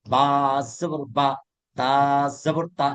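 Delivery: slow, measured letter-by-letter spelling; deliberate recitation for students to copy; spelling out slowly. Shown as a demonstration. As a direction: draw out the letter name, then land on a short syllable. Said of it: "কিন্তু বানান করে পড়তে হবে".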